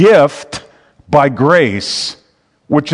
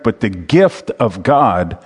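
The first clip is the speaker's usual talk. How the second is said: "gift" leaned on in a slowed phrase; slow down and stress the word "gift"; 4 semitones lower, slower than usual. Real, not acted. Preacher quoting Romans to the congregation, stressing "gift". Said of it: "I'm emphasizing gift here".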